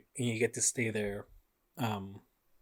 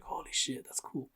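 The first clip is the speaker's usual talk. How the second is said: awed hush; 3 semitones higher, 5 dB quieter than usual. Retold or imitated. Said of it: "I was like".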